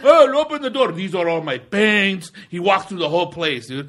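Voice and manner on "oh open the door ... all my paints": high, eager and slow; excited shop guy. Retold or imitated. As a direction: show off the paints excitedly.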